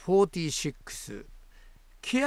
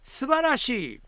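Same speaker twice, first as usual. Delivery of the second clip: grand mock praise; 9 semitones higher, 4 dB louder than usual. Reading the prompt phrase grandly.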